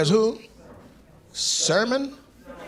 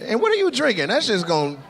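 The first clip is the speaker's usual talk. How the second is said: disgusted disbelief; 11 semitones higher than usual. Real, not acted. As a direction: recoil at the cup he's holding. Mock disgust at his drink.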